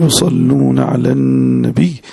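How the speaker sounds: slow, drawn-out Arabic recitation; solemn recitation. Acted. Teacher opening the lesson with a verse of blessing, solemn recitation. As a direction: recite slowly, stretching the long vowels.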